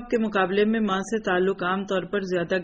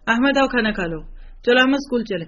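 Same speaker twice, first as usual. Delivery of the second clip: put-on louder, higher call to a child; 4 semitones higher, 5 dB louder, faster than usual. Mother calling her son Ahmad to come eat. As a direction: call him across the house.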